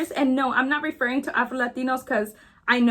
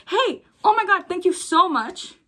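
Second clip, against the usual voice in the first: high, bright and overly thankful, mocking; mock gratitude; 5 semitones higher than usual. Mocking racists who would never thank her, in a high gushing voice. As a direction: gush fake thanks as a parody of a racist. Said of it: "Nobody's ever gonna be like".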